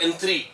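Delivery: "एन थ्री" said as one joined unit; run together. Shown as a demonstration. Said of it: "पहले एन थ्री बोलो एक साथ". ("एन थ्री" एक साथ बोलें)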